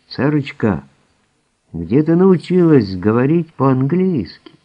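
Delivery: loud, high incredulous question; surprised. Acted. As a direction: blurt it out astonished. Husband's astonished question to medium.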